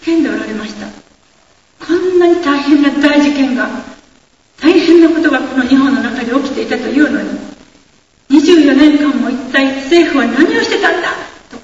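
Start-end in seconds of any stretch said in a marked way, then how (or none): 1.8-11.1 retold shout. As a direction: cry out in angry grief at the government. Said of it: "本当に大きな声で叫んでおられました".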